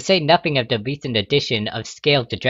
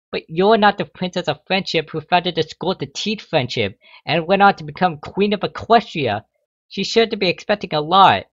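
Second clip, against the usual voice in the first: protest; 6 semitones higher than usual. A narrator's reading. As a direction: insist the queen expects a lot. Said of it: "Luster protested".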